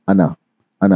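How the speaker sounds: अना with a short final a; अना read without madd; short ana. Shown as a demonstration. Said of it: "ये हमेशा जो है".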